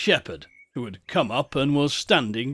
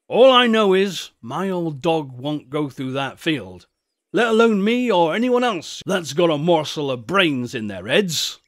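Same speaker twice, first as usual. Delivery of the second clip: emphatic country shepherd, starting high and loud; old shepherd, warning; 3 semitones higher, 5 dB louder than usual. Acted. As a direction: warn them off in a rustic voice. Shepherd warns the boys.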